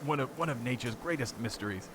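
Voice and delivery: mock British nature-documentary narrator; lightly faked British commentary, savoring the mystery; terrible British accent. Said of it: "here's my terrible British accent".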